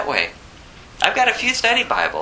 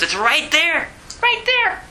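excited; 10 semitones higher, slower than usual. Real, not acted. Pointing to the verse, excited.

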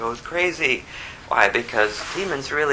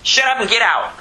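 high, emphatic command; acted, quick expelling order; forceful rebuke; 10 semitones higher, 3 dB louder than usual. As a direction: order a demon out abruptly. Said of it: "That's what he said".

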